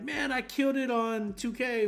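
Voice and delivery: mildly hyped, acting out excitement; excited bragging. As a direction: pretend to brag excitedly about a game. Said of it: "When you get excited about something".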